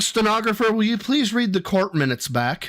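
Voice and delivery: hint of a formal courtroom request; mock courtroom lawyer. To the court stenographer, mock lawyer.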